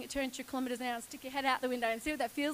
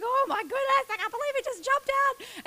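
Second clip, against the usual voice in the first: awed disbelief; 10 semitones higher, 5 dB louder than usual. Retold or imitated. Reliving thoughts after the jump.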